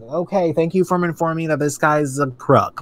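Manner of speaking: mock-grateful, dripping sarcasm; sarcastic thanks. Ranting about attack ads to her co-host, sarcastic. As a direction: thank them like they told you nothing new. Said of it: "I'm like".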